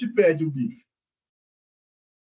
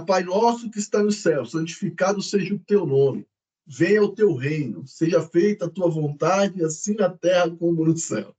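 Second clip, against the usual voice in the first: oração afirmativa, pausada; declarando; 2 semitones lower than usual. Retold or imitated. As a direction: reze devagar, como quem faz afirmações. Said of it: "são afirmações". (declarando com firmeza, pausado)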